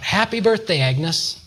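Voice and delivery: high-pitched but contained birthday cheer; mock crowd shout. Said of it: "got everybody to shout".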